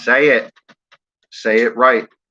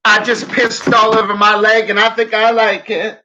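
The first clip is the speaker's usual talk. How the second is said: silly put-on voice; 11 semitones higher, 5 dB louder than usual. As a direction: ham it up in a squeaky voice.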